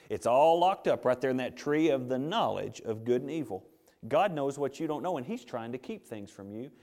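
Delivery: coaxing serpent voice, mildly acted; lightly voiced tempter, sly and persuasive; a hint of the sly serpent whispering to Eve; serpent tempting Eve. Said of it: "what he just told Eve".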